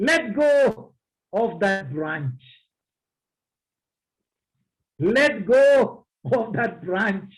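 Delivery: slow, low, deliberate command; calm command of God. A narrator's reading. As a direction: lay it down slowly, with authority. God's command, repeated slowly.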